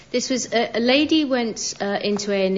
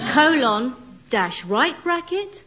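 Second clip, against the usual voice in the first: spelling out emoticon; 5 semitones higher, slower than usual. Shown as a demonstration. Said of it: "so it would be something like Macbeth".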